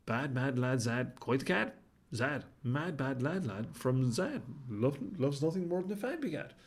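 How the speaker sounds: slow, deliberate rhythmic tongue twister. Acted. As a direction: chant the twister word by word.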